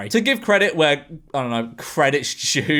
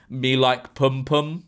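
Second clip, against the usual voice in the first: slow, deliberate mock Jamaican accent; 2 semitones lower, slower than usual. Quoting a singer's film line, mock Jamaican accent. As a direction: imitate a bad Jamaican accent, drawn out. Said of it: "in a Jamaican accent, a singer says".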